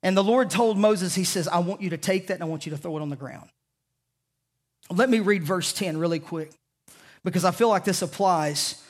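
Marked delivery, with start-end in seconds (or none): 1.5-3.5 quiet voice of God. Acted. God speaking, quiet fast.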